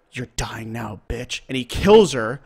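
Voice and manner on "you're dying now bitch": imitated cold calm, dropped after the screams; quiet, matter-of-fact killer's voice, retold. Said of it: "very calmly, he goes".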